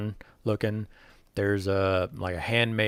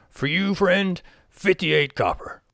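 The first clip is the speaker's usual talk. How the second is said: much higher, louder wheedling goblin voice; goblin merchant; 9 semitones higher, 6 dB louder, slower than usual. Acted. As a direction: coax the buyer like a crafty goblin.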